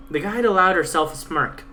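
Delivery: usual speaking voice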